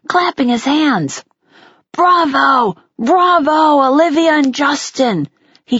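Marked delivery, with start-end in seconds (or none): 1.9-5.3 cheering. Acted. Teacher cheering the performers.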